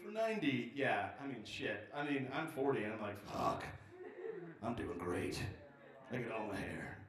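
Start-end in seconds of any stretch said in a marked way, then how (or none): 3.2-7.0 mock self-satisfaction. Mock self-talk about being forty.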